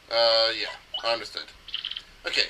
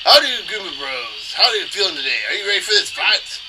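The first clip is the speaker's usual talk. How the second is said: loud, raised interviewer voice; ring announcer interviewing fighters; 6 semitones higher, 5 dB louder than usual. Acted. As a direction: put peppy questions to the fighters.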